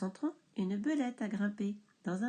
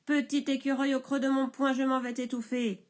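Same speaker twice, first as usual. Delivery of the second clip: 1 menace; 3 semitones higher, 4 dB louder than usual. Acted. Menace du bûcheron.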